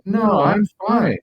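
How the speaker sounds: high, loud, slow protest; insisting he's fine. Retold or imitated. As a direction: drag it out, stubbornly denying. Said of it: "I said".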